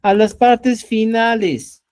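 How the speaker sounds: teacher drilling the point about word endings, slow and firm; slow emphasis. Shown as a demonstration. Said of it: "¿ya?".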